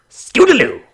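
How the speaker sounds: loud high call; shouted name. Pretend. Announcing his student, a loud high call. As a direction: announce her like a champion.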